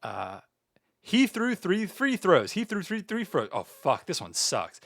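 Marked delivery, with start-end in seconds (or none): 1.0-2.5 slow and careful twister attempt; slow deliberate tongue twister; careful slow take. Shown as a demonstration. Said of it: "We gotta read tongue twister". 2.5-3.5 tongue tripping on the twister; flubbed stuttering tongue twister; flubbed twister take. Shown as a demonstration. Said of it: "We gotta read tongue twister".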